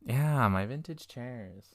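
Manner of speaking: put-on slow, exasperated valley girl voice; valley girl accent. Cat scratching her chairs, slow exasperated valley girl voice. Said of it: "Your little accent on that".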